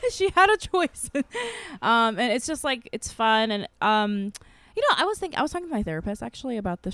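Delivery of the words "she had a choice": said through real laughter, slow; can't stop giggling while saying it; laughing. Real, not acted. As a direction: laugh your way through the line. Laughing at the hot dog water story.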